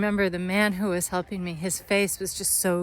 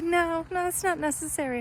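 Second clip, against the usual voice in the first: breezy refusal; 8 semitones higher, 4 dB quieter than usual. Retold or imitated. Officer refusing papers again.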